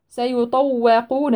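سيطوقون with a heavy ط and a light و, very slowly; سيطوقون with tafkhim on ط. Shown as a demonstration. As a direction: stretch سيطوقون, thick ط, thin و. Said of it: "الواو مستفلة".

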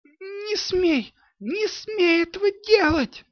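put-on high, frantic girl's scream; девчачий вопль не своим голосом; unrecognizable yell. A narrator's reading. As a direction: scream at the robbers in a voice not her own. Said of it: "заорала она не своим голосом".

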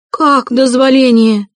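high, loud, slow outraged wail; indignant wail, pitched high. A narrator's reading. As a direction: howl the question back at him. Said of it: "завопила Катерина Ивановна".

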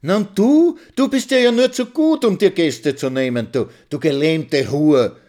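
very high, loud screech; wife screaming at the old woman; shrieking. Acted. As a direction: shriek the insult. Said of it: "kreischt Mitzi mit ihrem melodiösen Stimmchen".

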